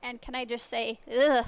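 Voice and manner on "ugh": loud groan of revulsion; shuddering ugh. Real, not acted. Reacting to the scorpion, shuddering ugh of disgust. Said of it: "internal shuddering, external shuddering".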